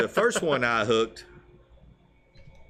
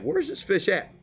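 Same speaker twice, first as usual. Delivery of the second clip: higher-pitched baffled question; puzzled self-quote; 10 semitones higher than usual. Retold or imitated. Angler retells losing sight of his hooked fish, puzzled. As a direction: replay your own bewilderment, pitched well up.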